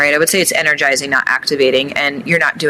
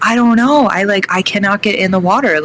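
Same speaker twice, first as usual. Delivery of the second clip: mildly raised, higher voice on the edge of tears; retold panicked cry; 4 semitones higher than usual. To her friend at the cold plunge, a retold near-tearful panic. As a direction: replay the panic at the plunge, half-crying. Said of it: "literally screaming".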